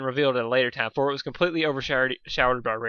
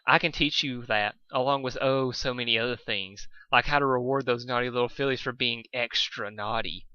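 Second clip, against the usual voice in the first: sultry tone. Acted. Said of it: "to the sultry tone from earlier".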